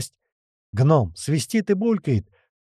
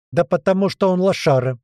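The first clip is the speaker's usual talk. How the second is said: high, jeering parrot squawk; 6 semitones higher, 4 dB louder than usual. A narrator's reading. Parrot explaining himself to owner, squawking insult. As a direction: butt in like a mocking bird. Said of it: "выдал попугай".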